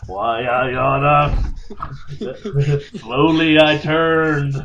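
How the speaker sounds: slow, drawn-out hammed-up threat with a laugh; mock vaudeville menace. Reciting an old comedy bit to the co-host, slow hammed-up menace. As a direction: ham up the old slapstick routine slowly.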